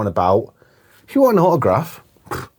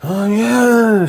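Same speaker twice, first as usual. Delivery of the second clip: higher, drawn-out "oh yeah"; acting out film hero; 8 semitones higher than usual. Host acting out the film hero on the plane, mock-casual. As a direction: play the hero sitting casually. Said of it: "he's like this".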